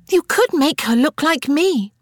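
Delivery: put-on high, eager little girl; hopeful. A narrator's reading. Little Frances asks Harriet to feature her, hopefully. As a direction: offer yourself hopefully. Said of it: "Frances said hopefully".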